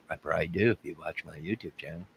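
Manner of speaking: playing himself as suspect, answering softly. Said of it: "I'm gonna interview myself".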